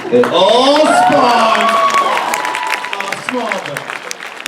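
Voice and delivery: mock formal speech, swelling to a drawn-out climax; hammed-up student oration; pretend speech class. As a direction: orate as if at a podium, stretching the key word. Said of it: "pretend I'm in speech class".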